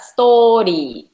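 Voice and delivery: "Story" with a level pitch; flat intonation. Shown as a demonstration. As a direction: say "Story" flat, no rise or fall. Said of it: "make it flat".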